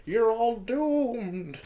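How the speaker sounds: put-on high, slow creepy old man voice; crazy blind man. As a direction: drag out the doom warning, spooky.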